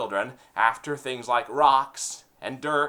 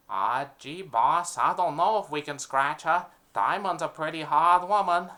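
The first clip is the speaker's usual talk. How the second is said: higher, louder nervous goon; mafia henchman; 3 semitones higher, 4 dB louder than usual. Acted. Henchman protesting to his boss, higher and louder. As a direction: play the jittery sidekick.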